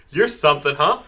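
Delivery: lightly voiced awestruck kid; a touch of a gee-whiz boy; wholesome 1950s kid. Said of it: "He's like a seven-year-old with a baseball cap".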